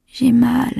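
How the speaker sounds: high, thin-aired whisper; pained murmur. A narrator's reading. Chloé in pain murmurs to Colin, high pained whisper. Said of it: "murmura Chloé".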